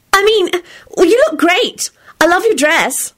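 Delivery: high, gushing Rosie; gushing girl. A narrator's reading. Rosie covers her shock with praise, high and gushing. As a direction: backpedal into high-pitched compliments.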